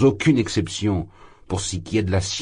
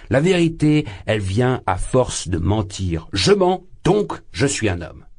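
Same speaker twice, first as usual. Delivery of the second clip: put-on drunken shouting; 4 semitones higher than usual. Drunk student lecturing two ladies, shouting. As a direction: shout it, carried away by drink. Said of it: "cria Razumikin, haussant la voix encore plus fort".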